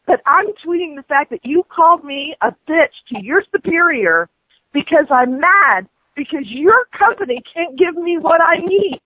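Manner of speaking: furious at the rep, pushing her pitch up; rising anger. Real, not acted. Customer blasting the phone rep, rising anger.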